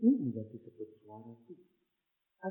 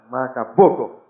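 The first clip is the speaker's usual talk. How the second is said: loud, fed-up "whatever"; loud dismissive retort from the student; defiant outburst; 14 dB louder than usual. Retold or imitated. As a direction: throw it off with a loud shrug. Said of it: "dia bilang".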